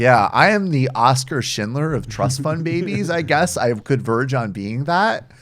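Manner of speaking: hammed-up moral grandstanding; Meghan McCain. Co-host continuing a parody of the TV pundit, mock self-righteous. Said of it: "She thinks she's such a good person".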